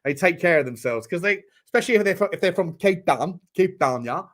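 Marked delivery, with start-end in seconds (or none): 3.6-4.2 mock South African accent on the place name; light South African imitation. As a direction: echo it as a South African would. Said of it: "South African birds".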